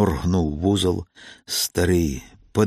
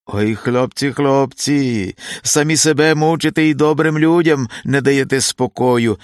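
high, loud groaning lament; old man's loud, high-pitched complaint; grumbling old man; 8 semitones higher, 6 dB louder than usual. A narrator's reading. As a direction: scold the boys in a pained, raised voice. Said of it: "закриктав ще з порога Відкуп".

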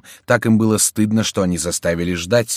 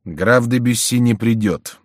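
stern, measured announcement, raised voice; harsh; 5 semitones higher, 5 dB louder, slower than usual. A narrator's reading. Антраге tells the waiting opponents of an absence, harsh. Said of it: "жёстко сказал Антраге".

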